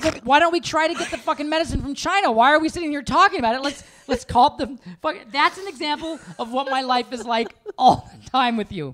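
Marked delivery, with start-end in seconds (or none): 0.0-5.2 mock exasperated. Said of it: "I'm like".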